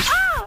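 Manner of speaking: short high-pitched shriek; acted yelp of alarm; high startled scream. Startled in the war skit. (matinis na tili)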